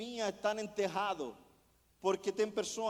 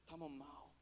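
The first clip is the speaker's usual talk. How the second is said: hushed remark; 8 semitones lower, 18 dB quieter than usual. Retold or imitated. Retold remark to brother at night.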